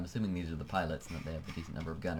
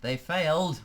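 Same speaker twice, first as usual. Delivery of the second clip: They failed, much higher and louder; surprised exclamation; 8 semitones higher, 8 dB louder than usual. Real, not acted. Streamer reacting to the squadron's failed raid with a loud, high outburst. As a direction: blurt it out in shock.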